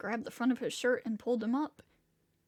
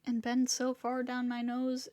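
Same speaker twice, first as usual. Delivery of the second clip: plain reading voice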